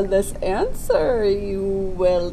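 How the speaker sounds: put-on slow, odd old-sage voice; Yoda voice. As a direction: speak backwards like a wise little sage.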